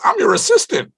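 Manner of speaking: put-on loud, very high girly falsetto; imitated white girl. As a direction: announce it as a chirpy assistant, mimicked. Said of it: "This white girl comes over and she".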